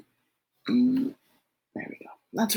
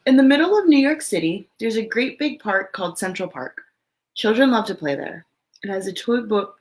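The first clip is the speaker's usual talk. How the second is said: lively, expressive storybook read; reading to children; 3 dB louder than usual. Acted. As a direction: read it out to a room of little kids. Reads picture book aloud.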